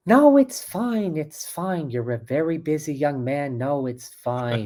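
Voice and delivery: put-on Jewish grandma voice, drawn-out high opening; Jewish grandmother. Grandma excusing a busy young man, hammed-up Jewish grandmother voice. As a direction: play a martyred Jewish grandmother, stretching the protests. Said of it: "the Jewish grandmother thing".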